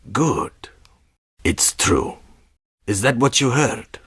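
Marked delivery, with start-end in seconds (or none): 0.1-2.2 breathy whispered approval. Acted. Spy whispers approval to the visitor. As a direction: whisper it close.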